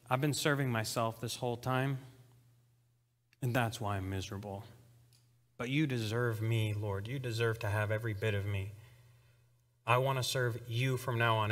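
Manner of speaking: soft, low, earnest confession; humble prayer. Retold or imitated. Sinner pledging to serve God, quiet and humble. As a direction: pledge yourself quietly to the Lord.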